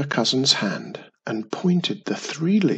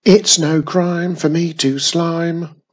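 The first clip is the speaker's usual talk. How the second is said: laughed; 3 semitones higher, 5 dB louder than usual. Acted. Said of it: "laughed the monster".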